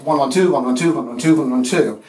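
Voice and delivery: bouncy da-da-DUM count; rollicking anapestic counting. Shown as a demonstration. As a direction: chant the three-beat gallop. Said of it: "rollicking, regular, anapestic".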